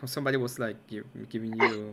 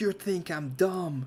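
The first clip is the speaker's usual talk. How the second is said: mock angry, offended outburst, high and slow; 7 semitones higher than usual. Retelling a call where the other man got super mad: imitating a furious caller. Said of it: "he got super mad at that".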